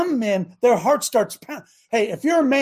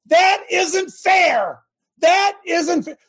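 mock complaint; 7 semitones higher, 3 dB louder, much slower than usual. Mock whine.

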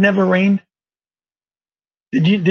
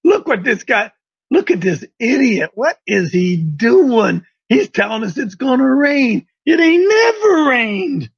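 mocking onlookers. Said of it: "ride their camels over and say".

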